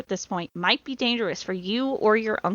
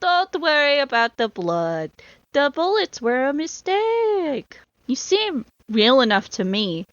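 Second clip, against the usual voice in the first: put-on playful European accent; 4 semitones higher than usual. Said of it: "I'll do that voice for that guy".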